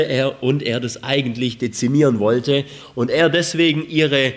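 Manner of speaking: ordinary delivery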